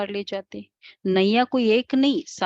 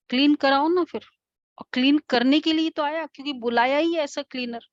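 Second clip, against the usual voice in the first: emphatic; 6 semitones higher than usual. Real, not acted. Rhetorical explaining to class.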